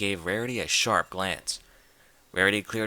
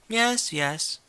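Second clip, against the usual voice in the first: impatient; 12 semitones higher than usual. A narrator's reading. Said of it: "waving an impatient hoof".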